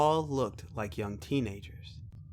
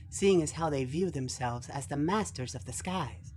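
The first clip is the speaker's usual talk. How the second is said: higher-pitched analytical youth; formal youthful voice giving an analysis; young scholarly Orion; 4 semitones higher, 4 dB quieter than usual. Acted. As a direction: report findings as a precocious young student.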